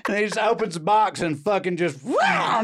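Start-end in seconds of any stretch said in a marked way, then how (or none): 2.0-2.6 high squeaky wow; mock surprised wow. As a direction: react to the bobcat. Bobcat bursts out.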